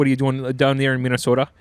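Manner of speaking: folksy Minnesota demo; Minnesota accent. Shown as a demonstration. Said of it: "a little bit more Minnesota".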